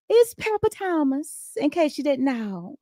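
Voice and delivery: high, slow Southern name introduction; Southern accent. Shown as a demonstration. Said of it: "trying to get my Southern accent on".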